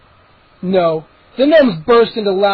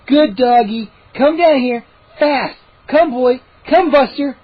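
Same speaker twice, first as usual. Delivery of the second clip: calling a dog; 5 semitones higher, 4 dB louder, slower than usual. A narrator's reading.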